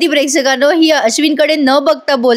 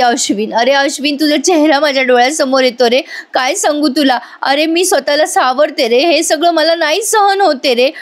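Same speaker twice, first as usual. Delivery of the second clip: dramatic whining; 3 semitones higher than usual. Retold or imitated. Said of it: "Priya नाटकं करत म्हणते".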